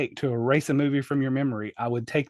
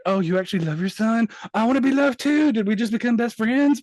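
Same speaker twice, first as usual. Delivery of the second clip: high, incredulous mock dialogue; hammed-up sudden delight, sarcastic; mocking reenactment; 7 semitones higher than usual. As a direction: act out a ridiculous change of heart, pitch climbing. Mocking a film's sudden reconciliation.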